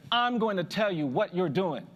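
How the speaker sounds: slow, emphatic pronouncement; stern old man. Retold or imitated. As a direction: lay it down word by word, like an elder. Old man answers his own question.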